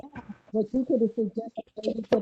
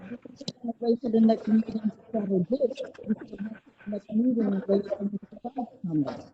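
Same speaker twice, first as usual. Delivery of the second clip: muffled bass only. Real, not acted. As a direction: voice dulled and bass-heavy as if behind cloth. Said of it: "You sound muffled".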